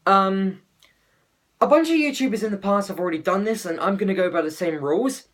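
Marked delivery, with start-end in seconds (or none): 1.6-5.3 slight lisp from a sore tongue; talking with a sore tongue, lisping. Real, not acted. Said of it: "I'm speaking with a bit of a lisp because, um, my tongue hurts".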